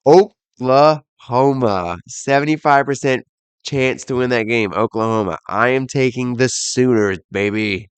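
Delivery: carried away, drawing out the team name; excited. Real, not acted. Podcaster taking the Sooners to win, excited. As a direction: get excited backing your pick. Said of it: "I just got excited".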